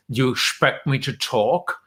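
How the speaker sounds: lightly done Sean Connery accent with slushy s; hint at Connery's Scottish accent. Shown as a demonstration. Host demonstrates the line for the guest, light Sean Connery accent. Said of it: "Sean Connery accent".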